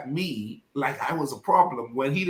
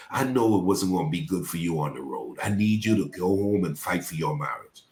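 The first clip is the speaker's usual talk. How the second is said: low, soft, scolding preacher voice; disappointed pastor; 6 semitones lower, 4 dB quieter than usual. Retold or imitated. Pastor scolding a younger pastor by phone, low and grave. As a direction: lecture him gravely, lower and quieter. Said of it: "he called me and he says".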